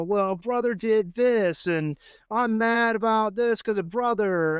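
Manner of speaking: put-on drawn-out, mildly put-upon child's grievance; retold complaint. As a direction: mimic a kid complaining about a sibling. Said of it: "he's complaining about".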